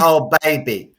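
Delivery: loud, hammed-up Aussie accent; Rocko. Imitating Rocko working the hotline, Australian accent. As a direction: play a phone-line operator in broad Australian. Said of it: "with his Aussie accent, he says".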